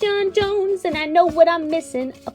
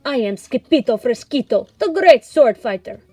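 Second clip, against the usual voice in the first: bold proclamation, getting louder; boastful kitten; 2 semitones higher, 8 dB louder than usual. A narrator's reading. Kitten introducing himself to the fox, boastful. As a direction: announce yourself grandly, building in volume. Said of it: "hissed the gatito".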